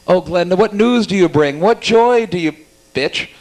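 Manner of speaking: a hint of a gushing fairy-tale witch, climbing in pitch; Glenda impression. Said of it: "My impression of Glenda, the Good Witch of the North".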